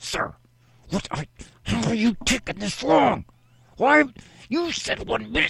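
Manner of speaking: put-on tight-jawed shout. Retelling scolding her daughter in a checkout line, the speaker mock-yells through a clenched jaw. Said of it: "I yell at her with a clenched jaw".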